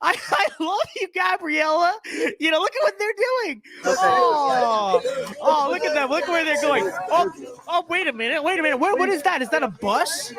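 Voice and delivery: high, sugary mock-adoring voice; mocking gushing liberal. Vlogger voices liberals hugging migrants, syrupy high mocking voice. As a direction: coo over them in a syrupy falsetto.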